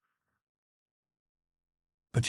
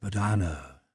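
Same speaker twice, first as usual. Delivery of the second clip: gently persuasive. A narrator's reading. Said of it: "said Vronsky persuasively and gently".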